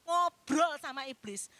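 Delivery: pleading with a breaking voice; a crying preacher's warning; tearful plea. Real, not acted.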